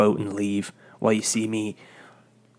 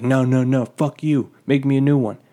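imitated angry refusal, raised voice; mildly mock-furious, pushy and louder; irate customer; 3 semitones higher, 5 dB louder than usual. Old customer demanding a new coffee, imitated irritation.

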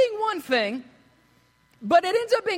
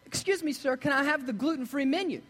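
kind woman; 6 dB quieter than usual. Retold or imitated. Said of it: "very kind".

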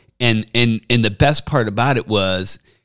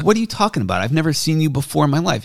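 higher voice, a hint of the indignant caddy; mock denial; 6 semitones higher, faster than usual. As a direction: play the caddy acting offended. Caddy denies it, retold story.

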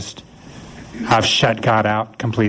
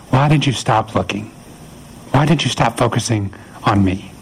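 encouraging. Retold or imitated. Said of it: "Those are encouraging words".

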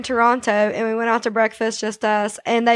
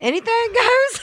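surprised; 12 semitones higher than usual. Real, not acted. Incredulous echo of a claim.

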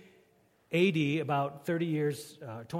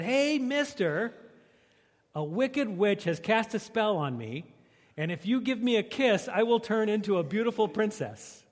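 frog voice; 5 semitones higher than usual. Acted. Frog speaks in joke.

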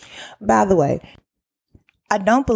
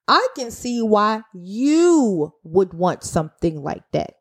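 extremely sarcastic. Retold or imitated. Worker answering a manager's policy idea, heavy sarcasm. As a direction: stretch the key words with mock understanding. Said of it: "I'm being extremely sarcastic anyway".

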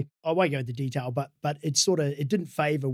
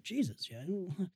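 laughing thought; 5 semitones higher, 5 dB quieter than usual. Retold or imitated. Laughing inner thought about Crusher.

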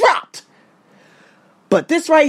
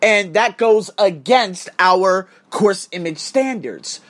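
mock polite support email; 4 semitones lower than usual. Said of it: "just says".

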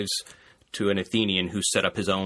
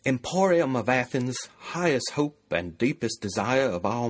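put-on Southern hick accent; 5 semitones higher than usual. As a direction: play a folksy Southern yokel greeting the market. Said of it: "If you're going for hick, right, go Southern".

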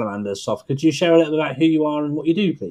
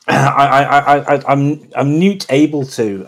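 put-on a clumsy, half-hearted Scottish accent; bad Scottish accent; 6 dB louder, slower than usual. Host tries a Scottish accent to segue into a guest's product. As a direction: fake a Scottish lilt badly, trailing off. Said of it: "that was my, uh, bad attempt at a Scottish accent there".

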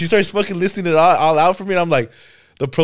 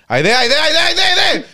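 frantic repeated cries climbing higher and higher; rising panic; 10 semitones higher, 3 dB louder, slower than usual. Retold or imitated. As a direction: panic building as the light gets closer. Panicking as car speeds.

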